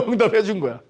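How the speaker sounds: ordinary talk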